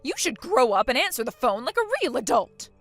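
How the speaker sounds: loud, indignant lecture; angry scolding. Acted. Mother-in-law demanding obedience, loud and indignant. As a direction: put the brat in her place.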